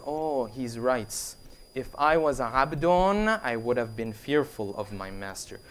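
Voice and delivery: low, soft, slow realization; sobered realization. Retold or imitated. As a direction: let the truth sink in, hushed and slow. Bish's dawning realization, acted.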